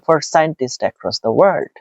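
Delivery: slow, smooth chunk; one flowing phrase, then stop; read as one chunk. Shown as a demonstration. Teacher shows students a chunk, read slowly and smoothly. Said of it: "এখানে একটা part করে ফেলেন".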